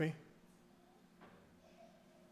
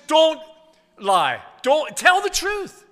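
voice of grace; 10 semitones higher, 7 dB louder, slower than usual. Retold or imitated. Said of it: "Grace says".

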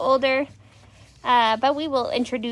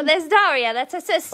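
high mock-British greeting; amateur British accent; attempted British accent; 4 semitones higher than usual. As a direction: coo a hello in fake British. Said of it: "do it in a British accent".

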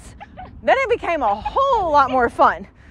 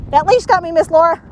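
voicing the dog again; 4 dB louder than usual. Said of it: "I'm not Mom".

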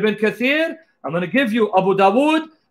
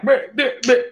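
short mock beeps, pitched up; staccato beeping imitation; imitated mic glitch; 3 semitones higher, slower than usual. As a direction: mimic the faulty mic. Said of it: "Fix your mic".

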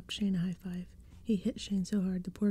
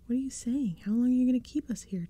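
high, loud, alarmed questions; crying out; 5 semitones higher, 4 dB louder than usual. A narrator's reading. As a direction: cry out in alarm. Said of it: "Tabby cried".

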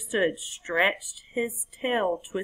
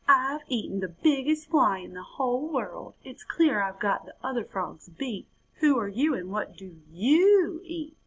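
boasting frog; 3 semitones higher than usual. Acted.

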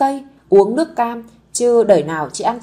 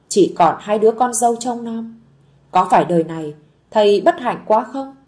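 trembling weak voice. Acted. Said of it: "Ông nói bằng cái giọng run run yếu ớt".

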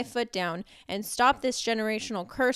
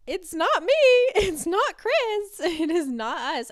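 high, laughing and louder; laughing denial; 9 semitones higher, 8 dB louder than usual. Real, not acted. Mom answers compliments about her kids, laughing. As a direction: laugh it off, insisting it's not you. Mom deflecting praise to God.

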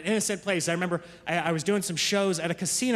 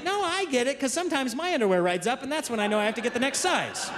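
put-on higher, earnest little boy explaining; imitating young son; 5 semitones higher than usual. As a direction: play a kid matter-of-factly reasoning. Retelling son's answer.

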